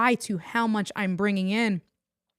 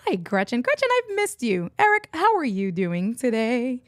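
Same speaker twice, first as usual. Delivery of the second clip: excited greeting; 3 semitones higher than usual. Real, not acted.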